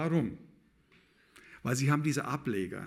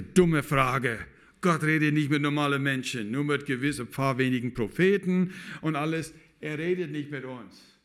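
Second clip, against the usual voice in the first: louder, curt dismissal of a silly question; stern imam rebuke; 2 semitones higher, 4 dB louder than usual. Retold or imitated. The imam scolds the curious boy, a loud dismissive rebuke. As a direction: slap the question down like a strict imam.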